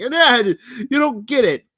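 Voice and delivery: high, loud exasperated comeback to dad; retorted outburst. Retold or imitated. Son snapping back at his dad in the theater, loud.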